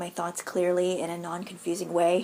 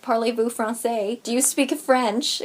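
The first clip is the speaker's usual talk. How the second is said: mock French visitor; slower than usual. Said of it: "you don't have French people coming over here like".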